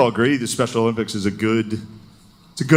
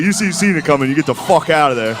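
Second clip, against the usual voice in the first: mock warning; 3 semitones higher than usual. Coach warning his players.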